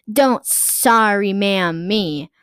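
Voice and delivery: slow, loud, indignant snapping; angry mom. Acted. Karen throws the cashier's apology back, slow and loud. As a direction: spit each word back at her.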